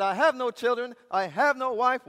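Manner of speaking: loud, high, emphatic refusal; preacher's impassioned retelling of defiance; defiant declaration. Retold or imitated. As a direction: proclaim it like a fearless convert. Convert defiantly answers.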